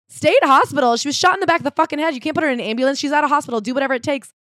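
high, outraged retort; indignant protest. Retold or imitated. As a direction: protest in disbelief, pitched high. Family protests at state hospital.

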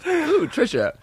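high, laughing ooh; mock swoon. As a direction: coo the name.

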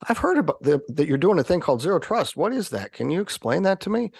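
a hint of a curious managing director; curious big boss. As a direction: ask it like an interested executive. Managing director voiced in story.

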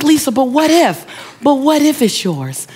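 lightly acted eager insistence; retold insistent friend. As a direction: press the idea on a doubting pal. Friend presses her point, retold.

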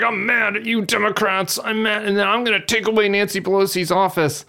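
high, petulant mock tantrum; mock whiny angry congressman. Host mocking McHenry's tantrum, high petulant mock anger. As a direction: play a sulky little man stamping his feet. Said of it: "He's like".

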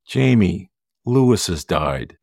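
slow, heavy, on the edge of tears; slow words just before crying; breaking down. Retold or imitated. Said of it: "and I broke down crying".

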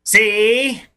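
lightly voiced old-time gangster; touch of movie-gangster patter; old-timey gangster. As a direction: play a hint of a twenties mobster. Old-timey gangster slang bit.

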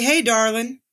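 light Southern twang, drop the G in "darling" and say "darlin"; Southern darlin'. Retold or imitated. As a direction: imitate a Southern dad's fond "Hey, darlin'". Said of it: "without the G, because we're Southern".

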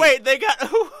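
surprised. Real, not acted. Host reacting to the Twitter backlash, laughing surprise. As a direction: jump up in amused surprise.

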